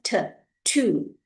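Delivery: "t" then "two", both aspirated; Chinese-style t sound. Shown as a demonstration. Teacher showing the Chinese reading, aspirated t in "two". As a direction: isolate the puffed t, then say "two". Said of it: "we, we read it as t".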